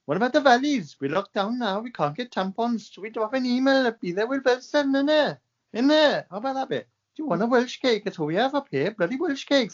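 mock Welsh valleys accent; lightly put-on Welsh lilt. S1 joking about locked-down Wales in a mock Welsh accent. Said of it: "I was gonna do a Welsh va-, accent".

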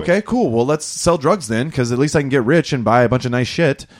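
high, mocking take on a resigned kid; sarcastic mock.

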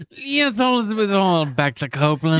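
high-pitched parody of the video host's hello; imitating the crazy-voiced host; mocking the YouTuber's greeting. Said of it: "This guy just has a crazy voice".

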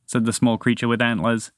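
usual speaking voice

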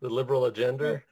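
"agenda" said as "agender"; joking accent, "agenda" becomes "agender"; added final R. Retold or imitated. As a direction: end "agenda" on an ER, laughing. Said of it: "A's at the end are like E Rs".

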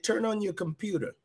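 small, hushed voice from above. Retold or imitated. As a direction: lift the pitch and drop the volume for the voice. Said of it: "a small voice said".

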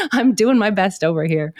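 vocal fry from bronchitis; hoarse, creaky chest voice. Real, not acted. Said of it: "apologies for any coughing or creaky voice".

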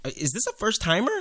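a hint of a woman's voice. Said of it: "that's my woman voice".

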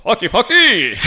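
slow, low announcer seduction; Ray Flores. Retold or imitated. Announcer asking his wife to go upstairs, announcer voice. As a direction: proposition your wife in mock announcer cadence. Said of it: "Ray Flores always in an announcing voice".

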